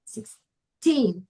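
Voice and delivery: put-on six-TEEN, split, with weight on the end of "sixteen"; "sixteen" pulled apart, stressed last syllable. Shown as a demonstration. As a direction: break "sixteen" in two and land on teen. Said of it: "teen at the end of the word".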